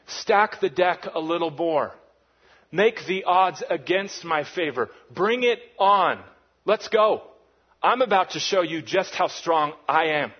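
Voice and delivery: hammed-up God itching for a fight; confident God voice. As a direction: taunt the odds with swagger. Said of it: "God's saying".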